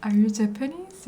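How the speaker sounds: imitating Japanese woman. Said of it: "이러더라고요".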